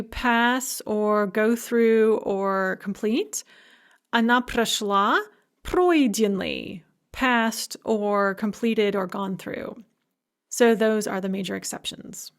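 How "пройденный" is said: пройденный slow, stressed on ПРОЙ; ПРОЙденный, slow and clear; slow, stress on first syllable. Shown as a demonstration. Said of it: "with the stress on the first syllable".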